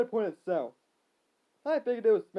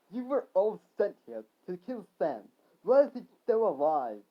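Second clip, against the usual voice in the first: mildly raised demand; mild yelling back; 4 dB louder than usual. Acted. Victor demanding answers, mild yell. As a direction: get louder on the question. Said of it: "Victor yelled back".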